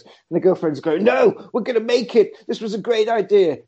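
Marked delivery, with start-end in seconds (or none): 1.0-3.6 higher-pitched acted protest; lightly voiced insistent girlfriend; mock girlfriend protest. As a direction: play the girlfriend objecting. Acts girlfriend's protest in crawlspace.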